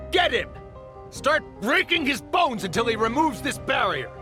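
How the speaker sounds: high-pitched, frantic command; urgent attack order. Acted. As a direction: yell orders at your henchmen.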